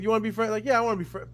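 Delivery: put-on high, bright kid voices; eager kid. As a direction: play two little kids making friends. Kids asking to be friends.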